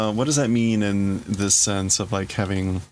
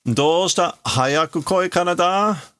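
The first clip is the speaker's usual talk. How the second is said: taunting call; 8 semitones higher than usual. Acted. Tetsuo beckoning Kaneda to come out, taunting call. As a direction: beckon him out, goading.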